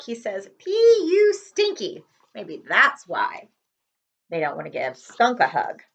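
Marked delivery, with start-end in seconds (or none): 0.6-2.0 put-on slow, high child's teasing voice; son's teasing. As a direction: imitate a little kid teasing, slowly. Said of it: "my son always says".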